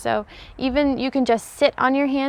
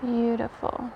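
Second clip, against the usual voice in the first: slow visualization with long pauses, fading softer; guided meditation; 7 dB quieter than usual. Real, not acted. Yoga teacher leading viewers through an energy visualization, slow meditative voice. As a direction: guide them slowly, settling into a hushed tone.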